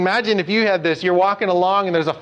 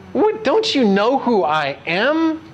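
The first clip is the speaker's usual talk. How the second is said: offended retort; 4 semitones higher than usual. Retold or imitated. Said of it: "Jesus was offended by this".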